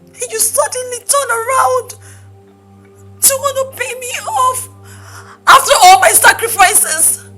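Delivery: halting, hurt pleading with pauses; wounded, swelling on key phrases; tearful reproach. Acted. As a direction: plead through tears at a lover's betrayal. Betrayed lover pleads tearfully.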